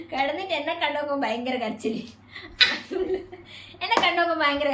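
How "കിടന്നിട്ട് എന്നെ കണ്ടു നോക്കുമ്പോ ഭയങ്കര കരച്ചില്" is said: giggling through the words; laughing. Real, not acted. Laughing as she tells viewers about the crying. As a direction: laugh while you tell it.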